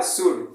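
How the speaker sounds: शुड with the L silent; शुड said cleanly as shood; correct pronunciation should. Shown as a demonstration. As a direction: model the right way, शुड, no L. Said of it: "original pronounce क्या है?".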